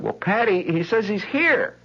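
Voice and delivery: high, slow mock-matron relay; dry mother. Mother relays the boy's words to her daughter, dry.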